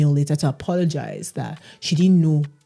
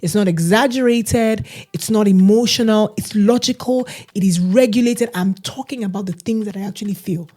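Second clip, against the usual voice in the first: higher, earnest self-quote; retelling her own reply; 5 semitones higher than usual. Retold or imitated. The speaker retelling how she answered her friend, higher. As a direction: lay out her case, insistent but controlled. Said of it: "I said".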